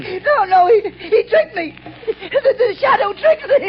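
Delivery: crying madman. Acted. Madman whimpering.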